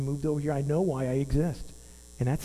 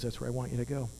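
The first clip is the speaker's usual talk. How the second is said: soft voice of God; 3 semitones lower, 7 dB quieter, faster than usual. Retold or imitated. God's reply voiced in story.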